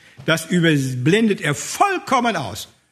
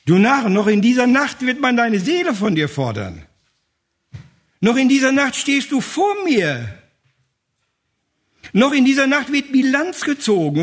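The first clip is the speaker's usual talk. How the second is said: voice of God; 5 semitones higher than usual. Acted. Voicing God's judgment.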